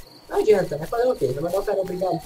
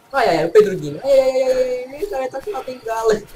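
laughing; 4 semitones higher, 4 dB louder than usual. Real, not acted. Laughing at a character.

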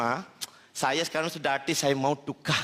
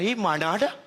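high mock bangladeshi voice; 6 semitones higher, faster than usual. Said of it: "Dia kata".

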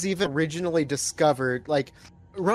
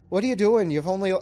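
put-on a tentative Irish accent on the quote; half-hearted Irish accent; 3 semitones higher, faster than usual. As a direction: try an Irish lilt, then give up. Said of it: "I'm trying to do, like, an Irish accent".

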